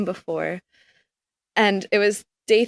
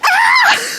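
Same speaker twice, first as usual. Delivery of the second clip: high piercing scream of sheer terror; terrified scream; 9 dB louder than usual. Retold or imitated. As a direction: scream as if fleeing a murderer. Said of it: "like you're being chased by a murderer".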